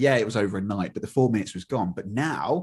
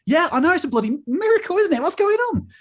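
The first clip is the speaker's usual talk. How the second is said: much higher and louder, dripping with sarcasm; sarcastic mock amazement; 6 dB louder than usual. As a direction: play up fake astonishment, way up high. Sarcastic reply about no hot water.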